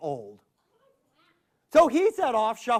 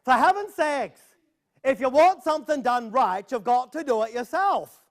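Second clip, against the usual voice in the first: exasperated grandma; 4 semitones higher than usual. Acted. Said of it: "She said".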